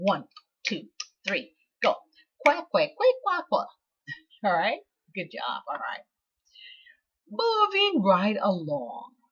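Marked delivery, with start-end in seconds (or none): 2.4-3.7 quick-fire, very high, loud quacking. Asked to do it a little faster, quacking again: quacking faster. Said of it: "Can you do it a little bit faster?".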